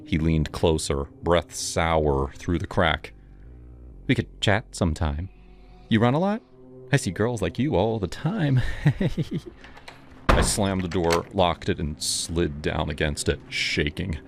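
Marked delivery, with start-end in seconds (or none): 4.1-8.6 higher, sleazy grinning voice; creepy delivery guy. Acted. 8.7-9.5 creepy giggle. Acted. Creepy guy laughs.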